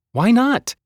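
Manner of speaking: high, loud demand. A narrator's reading. Hazel demanding an answer, high loud. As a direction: snap back the question.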